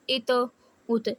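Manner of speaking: ات with a bouncing, doubled echo on the ت; qalqala echo. Shown as a demonstration. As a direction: stop hard on ات and let the ت rebound. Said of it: "تو double آواز آ رہی ہے میری".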